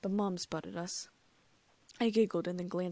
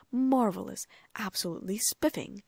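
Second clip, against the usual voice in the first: mock delight; 2 semitones higher, 5 dB louder than usual. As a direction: overdo the gentleman's joy. George mocking Percy.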